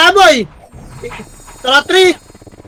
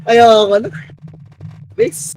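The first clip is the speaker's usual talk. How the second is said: low, crying whine; defeated gamer half-crying; whining give-up; 7 semitones lower, slower than usual. Real, not acted. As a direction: moan that you quit. Giving up after team wipes.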